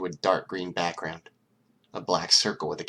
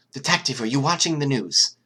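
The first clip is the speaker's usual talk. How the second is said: worried; 7 semitones higher, 7 dB louder than usual. Acted. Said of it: "Nezu's voice sounded worried".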